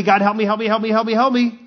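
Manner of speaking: mock plea, repeated in a run; vague pleading prayer. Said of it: "if we just pray vaguely".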